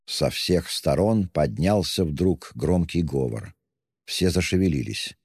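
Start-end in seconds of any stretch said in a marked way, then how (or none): none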